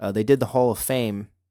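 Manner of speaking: normal talking voice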